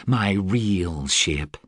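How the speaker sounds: "real" weighted and slow in "My real ship"; stress on real. Acted. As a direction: lean hard on "real", slowly. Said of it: "she emphasized".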